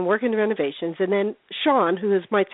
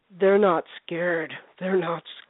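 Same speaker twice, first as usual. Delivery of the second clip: slow, drawn-out "They're not scared", pitched lower; imitated scary man; 4 semitones lower, slower than usual. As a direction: drag out "scared" low, mimicking his odd speech. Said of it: "the guy there was going".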